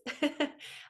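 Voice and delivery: bright laugh rising high. Real, not acted. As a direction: burst out laughing. Laughing at the cat story.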